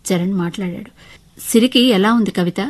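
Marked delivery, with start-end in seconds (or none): 1.4-2.6 worried question, a little louder; anxious. Acted. Husband phoning about his injured daughter, anxiously. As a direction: ask with urgent concern. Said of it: "కంగారుగా అడిగాడు".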